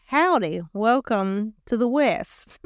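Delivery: a hint of a mock Texan drawl, slowed down; lightly put-on cowboy greeting. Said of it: "I don't know what that accent was".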